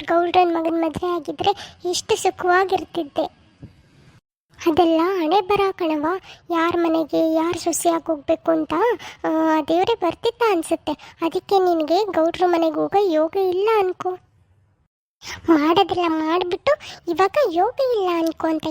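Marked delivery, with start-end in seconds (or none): 4.7-14.2 lightly voiced older mother, coaxing; a hint of a fussing village mother-in-law; mother-in-law soothing the new bride.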